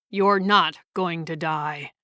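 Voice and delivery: gentle. Acted. Surgeon reassuring the frightened boy, mildly gentle. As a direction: ease the boy's fear, lightly tender. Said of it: "he said gently".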